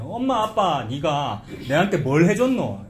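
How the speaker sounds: mock child confronting parents, in dialect; accusing challenge. Preacher acts a child taking parents to task, accusing. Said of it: "이런 식으로 따지는".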